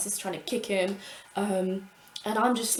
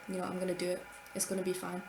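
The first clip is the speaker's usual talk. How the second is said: softer and softer, talking herself into it; fading quiet reassurance; quiet self-reassurance; 7 dB quieter, faster than usual. Retold or imitated. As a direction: hush it down as if only your eyes are speaking. Silently reassuring herself, eyes only.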